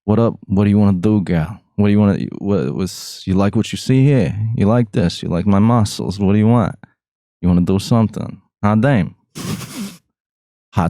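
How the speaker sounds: lightly voiced cocky Jersey player; Hot Tony. Jersey character hitting on a woman, cocky player voice. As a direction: flirt like a mock mafioso showing off his muscles. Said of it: "he talks like this right here".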